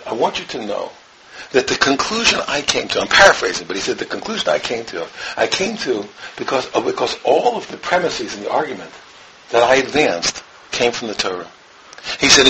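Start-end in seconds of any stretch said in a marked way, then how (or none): 0.1-3.0 hushed quote. Retold or imitated. Quoting Rabbi Feinstein's letter, hushed. 4.0-11.5 soft, low, reverent quoting; hushed quote. Retold or imitated. Quoting Rabbi Feinstein's letter, hushed.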